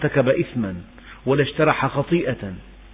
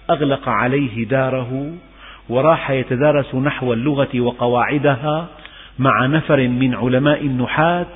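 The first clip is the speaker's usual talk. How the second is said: ordinary talk, nothing marked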